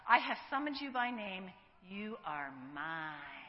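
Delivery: tender. Acted. Reading God's words to listeners.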